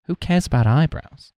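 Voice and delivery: George. Retold or imitated. Brushing off his friend in a retold scene, mock George voice. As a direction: lightly imitate a scoffing sitcom character. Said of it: "And then George is like".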